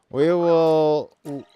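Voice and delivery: slow, loud, grand declaration; dramatic announcer. Acted. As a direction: boom it out like a proclamation. Mock dramatic announcement, cut off.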